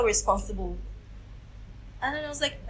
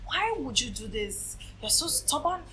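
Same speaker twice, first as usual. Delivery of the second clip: lightly imitated mother telling off her child; scolding mother; 5 semitones higher than usual. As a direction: retell a mum's scolding, pitched a little higher. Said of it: "then my mom, she was all".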